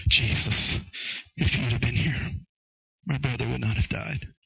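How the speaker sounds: hushed, halting grief, acted with restraint; second approach, Mary's. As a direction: say it as a broken-hearted appeal, pausing between phrases. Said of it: "The second approach was".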